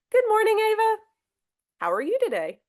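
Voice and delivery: bright, friendly example greeting. Shown as a demonstration. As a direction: greet her warmly, say the name once. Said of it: "let's look at the examples".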